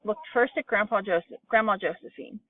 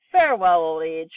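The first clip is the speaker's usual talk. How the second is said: joyful cry; 3 semitones lower, 5 dB louder than usual. A narrator's reading. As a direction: wave old age goodbye with glee. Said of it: "cried Grandma Georgina".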